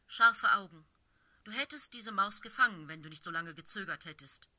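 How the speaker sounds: firm she-cat leader, appraising. Acted. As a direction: size up the kittypet with cool authority. Blaustern's long speech.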